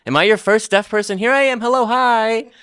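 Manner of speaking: high, loud and excited; excited greeting. Real, not acted. Interpreter voices playful deaf greeting.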